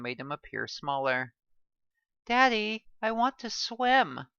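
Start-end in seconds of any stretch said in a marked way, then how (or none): 2.3-4.3 put-on high, slow child whine; whiny little girl. A narrator's reading. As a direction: complain like a small kid. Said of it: "the little girl complained".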